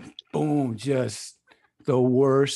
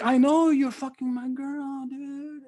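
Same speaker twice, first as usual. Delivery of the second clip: higher, slower mock accusation; the other guy; 8 semitones higher, slower than usual. Caught man accusing the boyfriend, indignant mock voice. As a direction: play him as indignant, lightly voiced. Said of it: "And then he's like".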